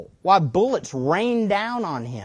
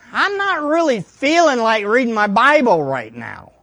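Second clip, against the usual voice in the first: hammed-up whine of excuses, pitched up at times; mock reluctant excuse; 4 semitones higher than usual. Preacher voicing someone tempted to stay in bed, mock reluctant. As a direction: act out talking yourself out of it. Acted excuse for skipping Bible reading.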